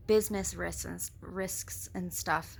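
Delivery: slight lisp on the s sounds; lisping through the s words. Real, not acted. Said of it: "Sorry, I have a lisp".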